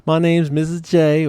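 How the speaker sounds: high, bright-pitched Texas drawl greeting a class; Texas accent. Retold or imitated. Future wife greeting the class as trainer, in a Texas accent. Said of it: "this Texas accent".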